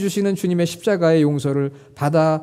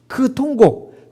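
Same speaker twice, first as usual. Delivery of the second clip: higher, drawn-out stress on 통곡; slow emphasis; 6 semitones higher, much slower than usual. Acted. Preacher naming Peter's weeping, high and drawn out. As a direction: linger on 통곡 to make it land. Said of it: "통곡하는 거예요".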